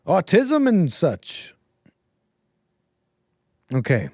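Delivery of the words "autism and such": dragging out the word autism, slowly; slow drawn out. Shown as a demonstration. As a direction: stretch autism and such out slowly. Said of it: "that's how I'd say that".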